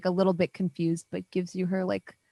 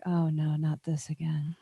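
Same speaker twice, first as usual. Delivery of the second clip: dismayed whispered aside; 2 semitones lower, 5 dB quieter than usual. Acted. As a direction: sink into a hushed, weary whisper.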